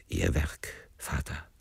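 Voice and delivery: low, soft and grim; grimly pin the blame on him; somewhat grim. A narrator's reading. Young man to the priest after the shot, quiet and grim. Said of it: "sagte ich einigermaßen grimmig".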